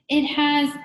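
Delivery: high, loud cut-off cry; shouting. A narrator's reading. Eric shouts on until his voice is stolen, high shout.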